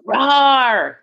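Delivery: playful roaring dinosaur impression. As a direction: roar it out like a toy dinosaur. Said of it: "I hope that helped, just in case you guys didn't know what that sounded like".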